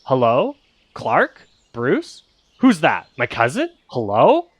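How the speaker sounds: lightly voiced parrot-like mimic; parroting creature. GM voicing the monster mimicking the heroes' names, lightly parrot-like. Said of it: "almost like a parrot trying to mimic them".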